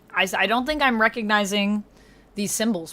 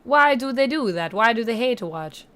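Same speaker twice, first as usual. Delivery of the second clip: a hammed-up, very bad Italian accent all through. Streamer thanking chat, in a bad Italian accent. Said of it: "enjoyed my very bad Italian accent".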